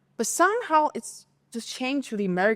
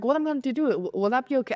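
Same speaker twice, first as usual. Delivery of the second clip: higher, mildly mock-frantic wail; frantic friend; 5 semitones higher, faster than usual. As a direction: imitate the friend losing it a little. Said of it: "frantic at the moment".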